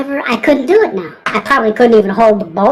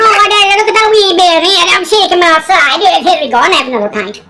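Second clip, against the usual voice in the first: high-pitched hammed-up Irish lilt; mock Irish; 6 semitones higher than usual. Irishman shaking a wee spider outside, mock Irish brogue. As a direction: play a fussing Irishman, voice pitched up. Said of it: "They're not going".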